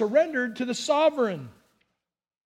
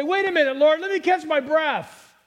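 raised pleading; 5 semitones higher, 3 dB louder than usual. Shown as a demonstration. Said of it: "trying hard to say".

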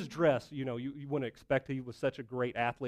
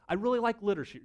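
put-on higher-pitched lady's line without the accent; simplified mock-lady delivery; little lady, accent dropped; 6 semitones higher, 4 dB louder, faster than usual. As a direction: voice her lightly, pitched up. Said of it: "I'll just say it this way".

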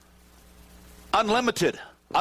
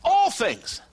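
impassioned cry; 10 semitones higher than usual. Real, not acted. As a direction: cry it out with emotion. Preacher's emotional peak.

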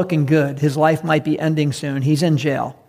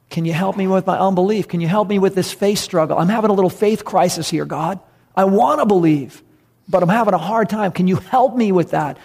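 mildly pleading, earnest acted prayer. Father asking God for help with unbelief, lightly acted plea. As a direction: press the request, a touch of strain.

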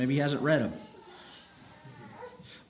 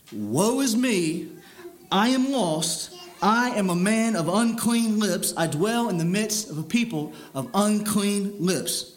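solemn lament; 2 semitones higher than usual. Acted. Reading Isaiah's lament slowly.

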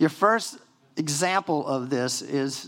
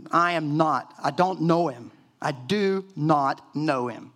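cursing denial; slower than usual. Retold or imitated. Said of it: "it says he cursed".

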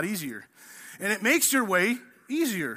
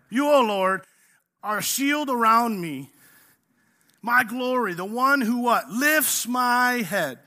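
reading the psalm aloud, building to a shouted finish; proclaiming scripture; 4 dB louder, slower than usual. Acted. Pastor reading Psalm three to the congregation, building to a shout. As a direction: ring out the verse louder and louder.

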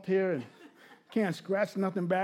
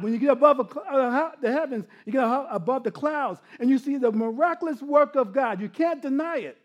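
impassioned preaching; 5 semitones higher, 4 dB louder than usual. Real, not acted. Preaches at raised force.

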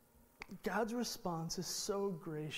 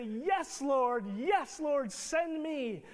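eager yes; 5 semitones higher, 6 dB louder, slower than usual. Retold or imitated. Ideal eager Moses response.

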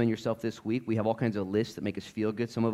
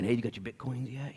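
condescending; 7 dB quieter than usual. Retold or imitated.

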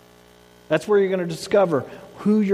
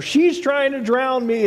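mild mock yell; 7 semitones higher, slower than usual. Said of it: "he's screaming at the".

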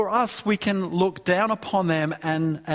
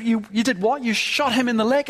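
higher-pitched, incredulous retort; horrified pastor; 6 semitones higher, 3 dB louder, faster than usual. Retold or imitated. Pastor questioning the convert who shot a mugger, horrified. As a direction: act out a pastor's shocked disbelief. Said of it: "The pastor was absolutely horrified".

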